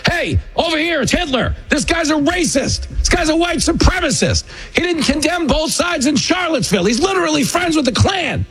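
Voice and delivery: very high, whiny hustler voice; mock the accusers as street hustlers; mocking Democrats. Democrats calling out on the street, high whiny mockery. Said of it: "started walking down the street going".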